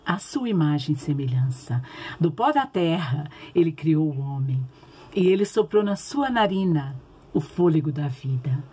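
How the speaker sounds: put-on gentle storytelling for kids; reading to children. (contação de história bíblica para crianças)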